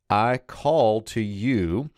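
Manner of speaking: "I call to you" drawn out slowly, rising at the end; slow gloss. Shown as a demonstration. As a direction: spell out the translation slowly. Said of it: "next we get the main verb here with".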